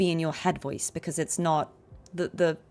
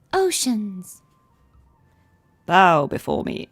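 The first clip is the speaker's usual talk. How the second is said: light call, then a slower, louder command; register shift demo; 6 dB louder, slower than usual. Shown as a demonstration. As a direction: glide from gentle call to commanding boom. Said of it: "It's easier to".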